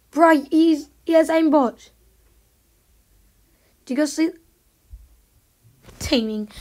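raging gamer. Real, not acted. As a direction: rant loudly about cheaters. Gamer ranting about hackers.

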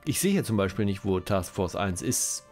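ordinary talk

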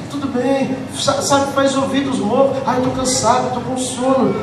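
queixa arrastada e mais baixa, imitando; crente preguiçoso imitado. Retold or imitated. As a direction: imite o fiel enfadado, sem vontade. Mimicking lazy whiny churchgoer. (imitação debochada do fiel cansado, em tom baixo)

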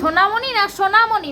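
সোনামণি said first as থোনামণি, then with clear স; pronunciation correction. Shown as a demonstration. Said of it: "ভালো করে বলো।".

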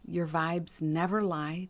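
ordinary talk, nothing marked

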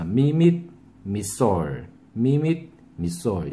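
밑 clipped, 미솔 stressed; short 밑 then punch 미솔; staccato with accent. Shown as a demonstration. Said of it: "강세를 주시면".

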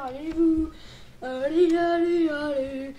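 loud mock yell; mock shout. Player yelling at the creeper gang, mock shout. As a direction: bellow it at the gang.

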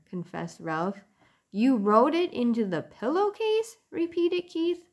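gentle storybook narration; reading to children. A narrator's reading. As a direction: read it like a bedtime story. Reads a chapter aloud to children.

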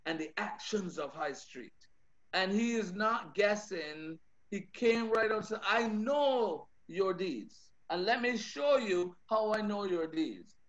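soft, intimate preaching. Acted. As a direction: draw the congregation in quietly. Drops to soft intimate delivery.

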